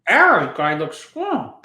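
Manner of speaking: pen in teeth. Retold or imitated. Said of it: "imitating Bob".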